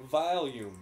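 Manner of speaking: slow "volume" with a strange drawn-out vowel; imitated odd, slow "volume". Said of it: "he says them weirdly".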